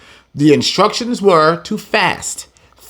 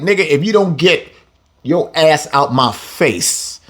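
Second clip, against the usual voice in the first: blunt translation. Retold or imitated. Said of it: "let's go ahead and translate".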